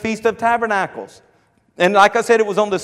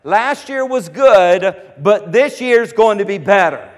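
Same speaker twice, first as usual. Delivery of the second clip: slow proclaiming declaration; declaring; slower than usual. Retold or imitated. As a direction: declare it slowly like a festival crowd. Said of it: "they declare".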